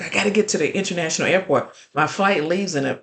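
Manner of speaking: quick, lightly voiced frantic request; retold frantic plea. Flustered traveler pleading for an airport ride, mildly frantic retelling. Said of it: "as she is frantically telling me".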